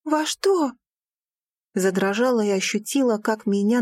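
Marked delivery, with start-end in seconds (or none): 0.0-0.7 higher, faltering; frightened. Acted. Daughter to father, frightened. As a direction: sense the blow coming.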